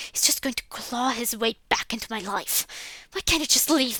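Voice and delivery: voiceless, resentful inner thought; bitter whisper. Acted. Max brooding about his father in a bitter whisper. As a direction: breathe it out in bitterness.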